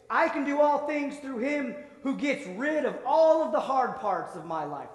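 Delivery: wishful rewrite. Pretend. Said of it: "I wish it would say".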